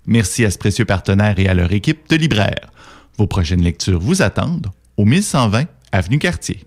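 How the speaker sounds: polished radio sponsor announcement with lilting phrase endings; announcer voice, measured and melodic; sponsor read. Real, not acted. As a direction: read it like a programme sponsor credit.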